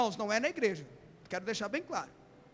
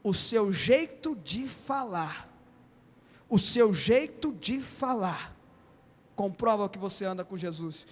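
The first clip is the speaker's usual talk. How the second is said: accusing bystander; 4 semitones lower, slower than usual. Acted. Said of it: "A última pessoa fala assim".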